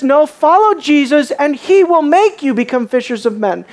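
corrected emphasis; stress on he. Shown as a demonstration. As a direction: press he as the one who acts. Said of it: "big difference there".

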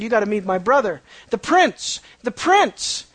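mock-excited girl talking up her brother; gushing sister. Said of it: "and she said".

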